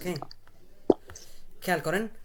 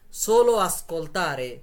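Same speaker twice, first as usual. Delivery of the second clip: drawn-out, louder teaching delivery; slow modelling; 5 dB louder, much slower than usual. Shown as a demonstration. Teacher tells class to only listen, slow modelling. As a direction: stretch each word for the learners.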